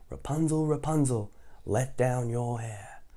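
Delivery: slow sing-song chant; drawn-out lead for listeners; say it along. Shown as a demonstration. Storyteller inviting kids to chant along. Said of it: "You wanna say it with me".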